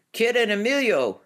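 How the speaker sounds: high, loud howl from the crowd. A narrator's reading. Woman calls out from a few rows back, howling. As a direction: howl it over the heads of the crowd. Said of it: "Spider-Person howled".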